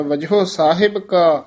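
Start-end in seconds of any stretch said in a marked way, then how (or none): 0.0-0.4 "ਵਜਹੁ" said open and loose; open pronunciation. Shown as a demonstration. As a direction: keep the ending of "ਵਜਹੁ" open. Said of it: "ਵਜਹੁ ਪੁੱਲਾ ਹੀ ਬੋਲਣਾ ਹੈ".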